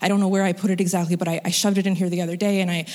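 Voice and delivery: hurried, mildly panicked retelling; imitating a friend's rising panic, lightly; retold panic. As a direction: rush through it, stumbling a little. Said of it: "she's starting to panic".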